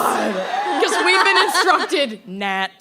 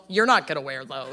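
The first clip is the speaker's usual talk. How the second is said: hushed inner voice; quiet self talk; 11 semitones lower, 6 dB quieter than usual. Retold or imitated. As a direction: tell yourself quietly. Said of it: "I just went to myself".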